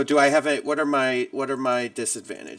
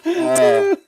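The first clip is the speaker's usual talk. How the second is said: cut by fax screech; 10 dB louder than usual. Real, not acted. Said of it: "it sounded like a fax machine".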